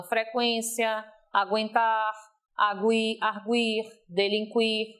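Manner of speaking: "Frequência, aguentar, agui-, arguir, delinquir" with each U a weak glide, gw or kw; unstressed U. Shown as a demonstration. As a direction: list "Frequência, aguentar, agui-, arguir, delinquir" word by word, U gliding into the next vowel. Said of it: "a pronúncia tem que ser átona". ("Frequência, aguentar, agui-, arguir, delinquir" com o U átono)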